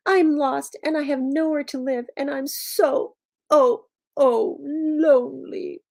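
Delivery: high, slowing lament, dragging out the last words; crying dragon. Acted. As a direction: wail it with hammed-up misery. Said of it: "cried the dragon".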